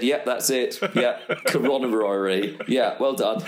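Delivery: laughing. Pretend. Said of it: "just imagine if I said".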